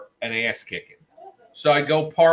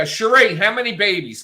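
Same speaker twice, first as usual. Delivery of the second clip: high, loud eager call of her name; imitating the guy's greeting; 9 semitones higher, 9 dB louder than usual. Worker greeting her at the counter, lightly voiced. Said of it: "'Cause this guy".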